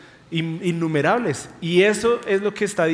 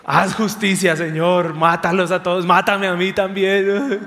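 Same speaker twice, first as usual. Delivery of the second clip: dramatic mock outburst, louder; hammed-up vengeful plea; mock fury; 3 dB louder than usual. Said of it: "Y después de repente". (furia fingida, más fuerte)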